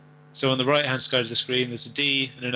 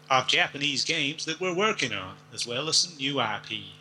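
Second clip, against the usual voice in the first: put-on lightly drawled American Southern accent; Deep South accent. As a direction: quote it like an old-time Southern character. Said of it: "sounded like somebody from the deep south".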